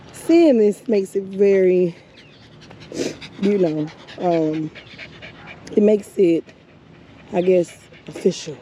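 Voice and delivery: words broken by real crying. Real, not acted. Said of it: "I'm over here crying like a baby".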